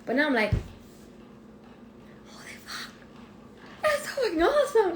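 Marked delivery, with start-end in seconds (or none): 2.3-2.9 breathless hushed disbelief; awed whisper. Retold or imitated. Vlogger quoting her own amazement, whispered. Awed realization of self-worth. 3.8-4.9 much higher, laughing through the words; giddy laugh of disbelief; laughing delight. Retold or imitated. Vlogger quoting her thrilled self, laughing high.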